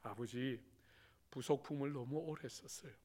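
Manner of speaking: deadpan soft jab; cheeky son. Retold or imitated. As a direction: son needling father, softly. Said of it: "입이 살아가지고".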